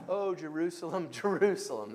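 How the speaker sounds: a lament that breaks into a laugh; a half-hearted mock lament cut by laughter. Shown as a demonstration. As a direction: try to mourn it but laugh on the second Jerusalem. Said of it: "Yeah, that's not".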